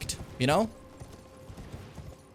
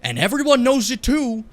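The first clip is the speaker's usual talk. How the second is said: mocking Asmongold; 6 semitones higher, 4 dB louder than usual. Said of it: "it's called Asmongold".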